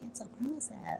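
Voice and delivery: very soft, barely voiced echo; mock echo. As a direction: quote it under your breath. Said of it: "I'm like".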